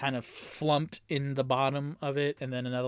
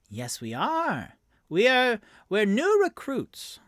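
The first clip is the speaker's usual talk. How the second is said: eager recruit; 10 semitones higher, 6 dB louder than usual. Acted. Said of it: "Rock nods".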